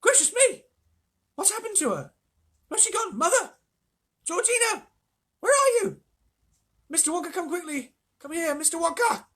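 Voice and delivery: very high, loud panicked woman; cried out. A narrator's reading. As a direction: cry out in rising panic. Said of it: "Missus Bucket cried out".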